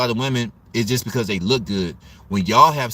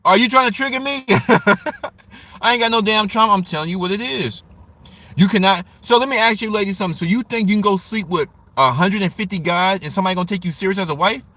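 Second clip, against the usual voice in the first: higher and louder, worked up and half laughing; riled up, laughing; 8 semitones higher, 4 dB louder, faster than usual. Real, not acted. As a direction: fire back at the chat, laughing and heated. Triggered by comments, laughing.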